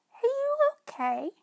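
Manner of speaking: a tiny kind mouse asking with concern; little mouse. Acted. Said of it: "she asked".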